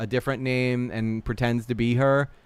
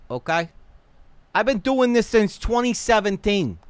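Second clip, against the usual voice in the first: put-on New York accent, pitched up in bursts; 3 semitones higher than usual. Streamer acting out the accused man's defensive email, New York accent. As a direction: play him as an indignant New Yorker. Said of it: "like, a, a New York accent".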